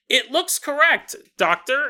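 prim lab assistant; lady scientist voice. Acted.

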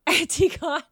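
Antigone as AN-tee-gon, high and loud; high, amused "Antigone" ending in -gon; echoed misreading. Retold or imitated. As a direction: mimic the misread Antigone, dropping the last vowel. Echoing the friend's misreading.

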